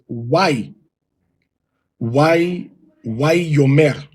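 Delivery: "Why Yomer" with a long o, wa-YO-mer. Shown as a demonstration. Teacher demonstrating the correct reading, Why Yomer. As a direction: say "Why Yomer" slowly, o vowel. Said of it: "As opposed to".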